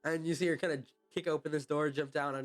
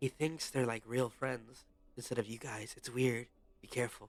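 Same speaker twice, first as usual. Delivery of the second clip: close, hushed, confiding half-whisper, no voice; 3 semitones lower, 3 dB quieter than usual. Getting really close, a character warns the group, half-whispering. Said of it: "she whispers".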